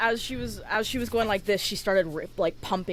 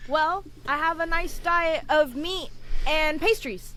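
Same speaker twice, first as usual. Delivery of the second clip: higher, slow boastful voice; high, slow self-satisfied boast; proud character; 8 semitones higher than usual. Acted. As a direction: brag about the diet. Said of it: "Hrothgar turns to Jordan and goes".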